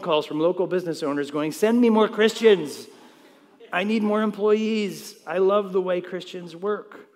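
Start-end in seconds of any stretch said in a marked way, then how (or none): 1.5-7.1 raised, louder plea, easing off by the end; eager employer. Acted. Business owners phoning the pastor for more workers, eager. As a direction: call out like a keen boss wanting staff.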